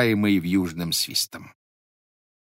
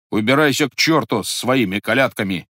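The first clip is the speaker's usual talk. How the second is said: angry shout; 4 dB louder than usual. Acted. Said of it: "сердито закричал Вакула".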